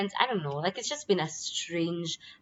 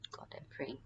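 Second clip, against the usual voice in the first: breathy whisper, barely voiced; whispered prayer; 3 semitones lower, 16 dB quieter than usual. Real, not acted. Hoping for no more missed chances, she whispers a prayer. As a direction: whisper it like a quick private prayer.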